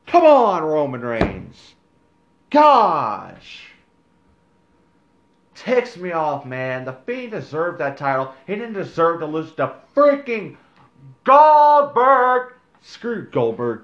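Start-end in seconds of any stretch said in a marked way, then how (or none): 0.0-3.7 exasperated yell. Real, not acted. Exasperated outburst at Roman. 10.0-13.8 outraged shout. Real, not acted. Outraged at the title loss.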